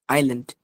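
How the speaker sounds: আইল্যান্ড said as "ai-land", no s; silent S. Shown as a demonstration. Teacher repeating the correct word, silent S. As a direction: leave the s out of আইল্যান্ড. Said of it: "এখানে এসটা".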